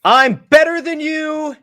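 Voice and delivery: high, slow creepy doll voice; talking plush toy. Pretend. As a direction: taunt slowly like a possessed toy. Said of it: "your M J F doll goes".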